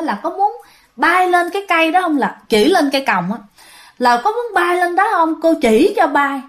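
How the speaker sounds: put-on a seven-year-old calmly telling her mom; a hint of a little girl, matter-of-fact; little girl answering nonchalantly. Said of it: "Con bé nó trả lời tỉnh bơ".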